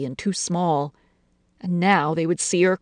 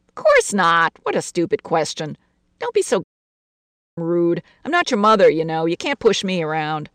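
lightly voiced annoyed aunt; irritated aunt; 4 dB louder than usual. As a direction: brush off a silly question. Aunt Lena snaps back.

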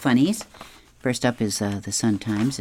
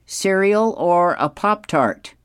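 higher-pitched, lightly hammed-up dad voice; chirpy comic dad, pitched up, slowing on the choices; 6 semitones higher than usual. A narrator's reading. Dad offers son breakfast in kitchen, higher comic dad voice. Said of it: "his dad says".

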